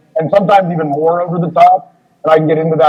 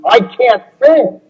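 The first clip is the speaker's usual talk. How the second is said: laughing protest; 7 semitones higher than usual. Retold or imitated.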